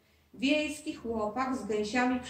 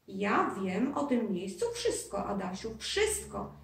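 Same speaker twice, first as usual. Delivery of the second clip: slow boast that rises higher and louder at the end; the ghost brags about his castle; lightly voiced proud ghost; 3 semitones higher, 4 dB louder than usual. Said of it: "dumnie zawołał Duszek".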